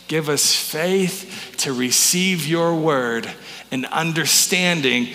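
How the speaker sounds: slow, measured congregational prayer; led prayer. Real, not acted. Pastor leading the church in prayer before the sermon, slow and deliberate. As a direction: lead them in prayer phrase by phrase, slowly.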